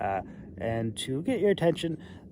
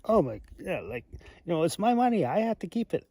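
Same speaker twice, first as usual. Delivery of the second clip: mock resigned; 5 semitones higher, 4 dB louder than usual. Retells own thoughts on receiving it.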